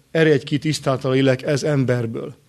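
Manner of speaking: quoting a calm, composed command. Retold or imitated. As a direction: say it evenly, without raising the voice. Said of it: "azt mondta nekik nyugodt hanggal". (nyugodt hangon idézett parancs)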